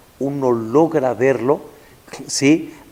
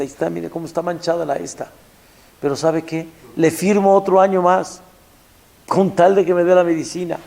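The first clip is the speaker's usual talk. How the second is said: higher, louder, desperate plea; desperate pleading mother; 6 semitones higher, 4 dB louder than usual. Retold or imitated. Mother begging the pharmacist for the medicine, desperate. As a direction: beg the pharmacist to believe her. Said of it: "Le dice".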